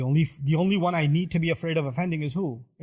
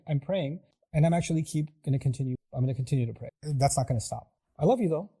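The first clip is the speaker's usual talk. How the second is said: calm. Shown as a demonstration. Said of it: "You need to communicate what you're doing".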